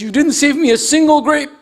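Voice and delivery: high-pitched, indignant storyteller's yell; acted yell. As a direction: imitate an upset husband yelling, without full volume. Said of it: "he yells, he says".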